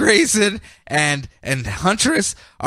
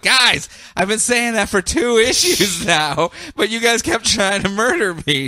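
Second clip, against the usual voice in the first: mock exasperation; 5 semitones higher than usual. Superman to the heroes who kept attacking, mock exasperation. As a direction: plead like someone nobody listens to.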